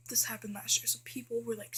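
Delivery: soft unvoiced whisper. Real, not acted. Telling viewers about noisy cabin nights, whispering. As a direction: whisper as if lights are out in the cabin.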